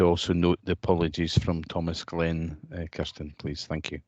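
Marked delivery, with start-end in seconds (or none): none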